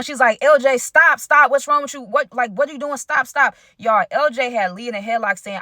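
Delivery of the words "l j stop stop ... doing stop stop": mild mock scream. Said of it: "Angel started screaming".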